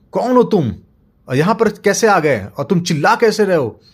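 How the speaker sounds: high, loud booming monster voice; monster's challenge. Acted. Monster questions father at castle, booming. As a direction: demand who dares shout here.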